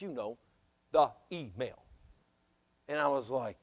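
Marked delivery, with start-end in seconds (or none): 0.0-1.8 low, soft acted reply; hushed hint. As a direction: drop it quietly, as a delicate reminder. Acts out man's awkward hint.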